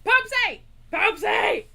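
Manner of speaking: loud excited call of a name; shouted nickname. Real, not acted. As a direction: yell the nickname at the screen. Calling out at the screen.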